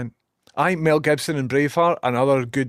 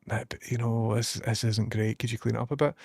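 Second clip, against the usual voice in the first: softer, hesitant mock-polite request; gentle telling-off; 2 semitones lower, 5 dB quieter than usual. People asking Scots to tidy their speech, gently imitated. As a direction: lightly imitate someone putting it delicately. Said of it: "gently tell us".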